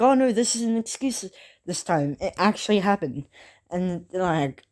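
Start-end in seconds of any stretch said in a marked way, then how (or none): 0.0-3.2 pleading protest. Retold or imitated. Naruto and Kakashi insisting to teammates, high mock pleading. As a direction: protest eagerly that it's true this time. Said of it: "Naruto and Kakashi are like".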